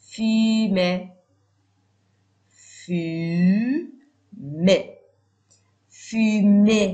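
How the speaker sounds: fumer with a loud, clear final é; modelled ending. Shown as a demonstration. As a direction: make them hear the é at the end of fumer. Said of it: "اینجا گوشتون رو تیز کنید".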